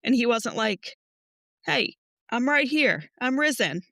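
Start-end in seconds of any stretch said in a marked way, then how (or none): 1.7-3.8 cheerful Jesus call. Retold or imitated. Jesus voiced, announcing himself.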